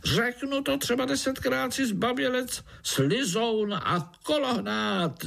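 very high tiny-insect voice hurling insults; high, slowing mock-brave fly insults; fly groom yelling. A narrator's reading. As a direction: squeak out the taunts like a furious fly. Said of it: "zařval mušák".

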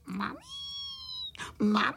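wailing for mum. Acted. Frightened little crickets call their mother, wailing. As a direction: wail it upward like a crying little one. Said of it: "brečeli na celé kolo a volali".

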